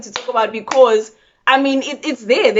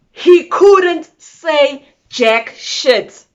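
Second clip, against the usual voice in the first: slow emphatic; 5 semitones higher, 5 dB louder, much slower than usual. Real, not acted.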